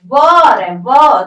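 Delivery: व said loud and drawn out as "waa"; demonstrating the sound. Shown as a demonstration. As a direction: punch out the opening "w" sound व. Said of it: "pronunciation में क्या आ रहा है?". (व की आवाज़ ज़ोर देकर)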